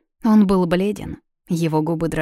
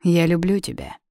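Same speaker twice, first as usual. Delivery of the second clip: serious. A narrator's reading. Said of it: "сразу став серьёзным".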